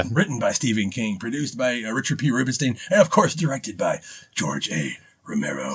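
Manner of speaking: a hint of a spooky credits read; lightly haunting reading of the credits. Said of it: "That's my spooky voice".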